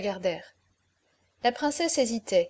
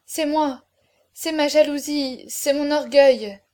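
higher, louder self-accusation, building in force; anguished confession; 4 semitones higher, 6 dB louder than usual. A narrator's reading. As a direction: press each admission harder, stretching the last. (aveu douloureux qui monte en force)

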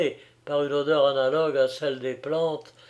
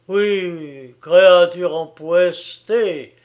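slow, loud furious cry; beside himself; 3 semitones higher, 9 dB louder, much slower than usual. A narrator's reading. Young man beside himself with rage, shouting at her. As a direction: spit the insult out, beside himself. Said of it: "hors de lui-même".

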